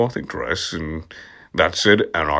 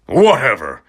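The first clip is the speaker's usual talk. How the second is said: shout. Acted. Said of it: "I shouted".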